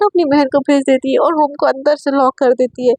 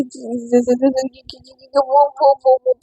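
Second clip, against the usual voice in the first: caught stammer. Acted. Satya caught, stammering in shock.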